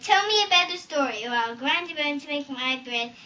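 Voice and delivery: hint of a gloating giant; lightly voiced threatening giant. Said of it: "the giant squeezed Jack and said".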